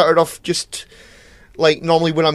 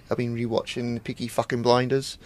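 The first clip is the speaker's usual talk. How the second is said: mock Brummie accent; 3 semitones lower, 8 dB quieter than usual. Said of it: "That was a terrible, terrible accent".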